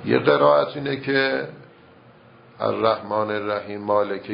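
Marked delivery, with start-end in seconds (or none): 2.6-4.3 «الرحیم مالکه» with one mim dropped; dropped mim, wrong. Shown as a demonstration. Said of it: "یه میم رو بیندازه".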